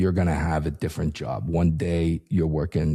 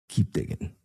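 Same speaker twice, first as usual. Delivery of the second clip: hushed, secretive whisper; whispered tip to a reporter; conspiratorial whisper. Pretend. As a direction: lean in and whisper like sharing a secret.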